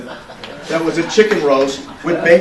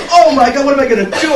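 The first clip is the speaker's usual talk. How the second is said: high, loud wail of dismay; exaggerated fretting, pitched high and loud; mock panicked outcry; 11 semitones higher, 7 dB louder, faster than usual. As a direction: act out a friend's panic, hammed up. Acting friend's panicked reaction.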